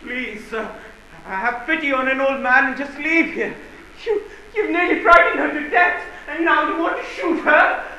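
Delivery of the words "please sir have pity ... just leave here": put-on pleading old servant. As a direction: beg humbly as an old man.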